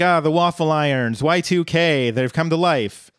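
hammed-up panicked dad; mock freak-out. Dad freaking out at Bender, mock panic. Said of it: "Fry's dad is also freaking out".

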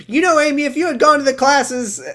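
hammed-up motherly telling-off; mock scolding yell. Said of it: "she starts yelling at Amy again".

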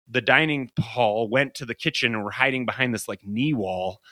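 usual speaking voice

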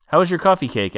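high cheery waitress voice; bright diner waitress asking. Acted. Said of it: "asked the waitress".

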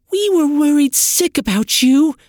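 high, loud worried voice; worried sister. Acted. Sister tells waking Trin they were worried, high and loud. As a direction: pour out the relief and worry. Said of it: "Sin said".

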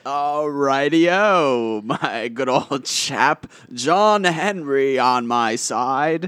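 slow hammy British drawl; a lightly put-on old chap voice; mock English accent. Colonial character bit.

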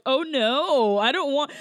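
mildly exaggerated dismay; mock annoyed. Host imitates woman rejecting the other man, mock annoyed. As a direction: imitate someone put out and refusing. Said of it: "she was so annoyed by the other one".

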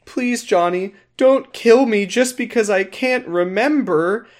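high, lightly voiced begging mother; mock pleading mom. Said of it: "the mom is like".

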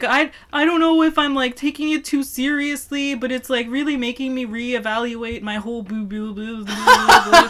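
lightly mocking an upset girlfriend, dissolving into laughter; mock perturbed. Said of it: "super perturbed by this answer".

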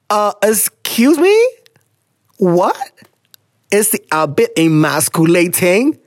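slow, drawn-out disbelief; incredulous. Real, not acted. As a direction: repeat it back in disbelief. Reacting to letter, outraged.

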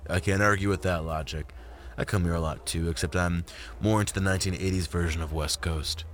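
lightly voiced laid-back man, a little low; Isaac, easygoing. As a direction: agree easily in a light male character voice.

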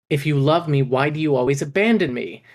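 hurt son shouting at his father; shouted with rage. Acted. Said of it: "Eric shouted, his body shaking with rage and sobs".

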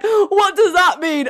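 high, slow, loud baffled sister voice; clueless little sister. Retold or imitated. Big sister mimicking her sister's baffled question, high and slow. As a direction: drag out the confusion like a puzzled kid.

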